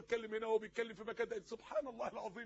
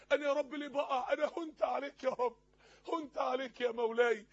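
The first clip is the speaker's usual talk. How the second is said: insistent, aching appeal to God; pleading supplication; 3 semitones higher, 4 dB louder than usual. Acted. Preacher voicing a sinner who feels abandoned by God, pleading. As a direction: plead question after question, pressing each one.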